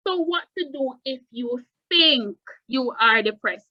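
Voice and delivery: the word think stressed. Shown as a demonstration. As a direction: think pressed with weight. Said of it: "put strong emphasis on this word, think".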